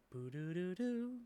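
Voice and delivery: sung-out electronic boot sound; toy-like robot jingle; imitated robot start-up beeps. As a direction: mimic a machine powering up.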